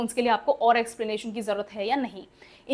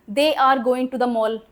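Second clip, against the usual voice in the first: very slow, word by word; slow example read; 3 dB louder, much slower than usual. Shown as a demonstration. Teacher dictating an example sentence to the class, very slow. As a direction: dictate it so students can write it down. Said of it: "teacher dictating example sentence".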